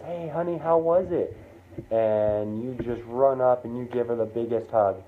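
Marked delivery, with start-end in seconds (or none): 0.1-1.4 higher-pitched motherly greeting; cheery mom. Acted. Mom greets kid coming through the door, cheery. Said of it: "and your mom says".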